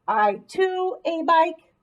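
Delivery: slow, deliberate testing read; teacher slowly tests a wrong word; slow trial read. Shown as a demonstration. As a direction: sound out each wrong try slowly. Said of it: "That doesn't make sense".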